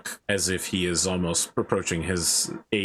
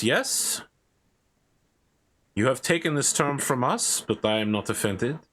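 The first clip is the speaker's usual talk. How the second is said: stately fey knight; 3 semitones higher than usual. Acted. GM voicing a fey knight greeting the players. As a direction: speak as a proud otherworldly swordsman.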